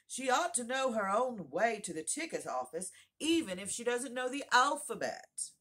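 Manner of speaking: loud, high-pitched declaration. A narrator's reading. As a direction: call it out loudly for all to hear. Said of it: "he said in a loud voice".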